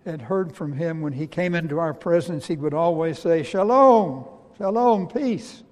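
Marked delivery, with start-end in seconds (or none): 3.4-5.6 raised, resonant greeting, falling on each word; wonder-filled greeting. Acted. Risen Jesus greets his disciples, simply and wonderfully. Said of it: "saying simply and wonderfully the word".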